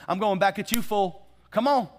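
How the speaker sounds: a touch of spouse snapping back; mock defensive comeback. Spouse hearing something heartfelt, a mock defensive comeback. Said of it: "your first thing is".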